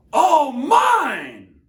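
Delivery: high, loud gloating shout; triumphant cry. Acted. Yertle on his throne, crying out in triumph. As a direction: crow it from the top of the pile. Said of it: "Yertle cried".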